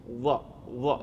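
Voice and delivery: soft "dha" with the tongue side against the teeth; correct dha. Shown as a demonstration. Teacher shows the dha letter to a student, careful pronunciation. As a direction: sound out "dha" slowly. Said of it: "Lihat, lihat saya".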